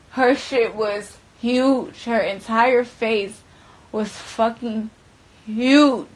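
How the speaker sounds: slow, loud, drawn-out disbelief; stunned emphasis. Real, not acted. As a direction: spell out how bad it was. Shocked at swollen face.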